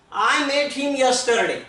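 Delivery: very slow, word by word; dictating an English example sentence to a class; slow dictation. Shown as a demonstration. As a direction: read it out slowly for students to copy.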